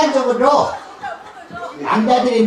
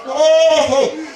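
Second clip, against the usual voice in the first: drawn-out mock protest; 4 semitones higher, 4 dB louder, much slower than usual. Real, not acted.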